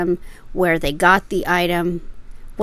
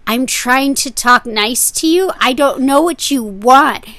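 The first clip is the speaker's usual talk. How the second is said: flustered; 5 semitones higher, 8 dB louder than usual. Retold or imitated. Frank protests to the seller.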